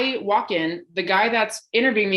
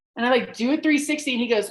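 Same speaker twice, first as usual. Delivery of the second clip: ordinary talk, nothing marked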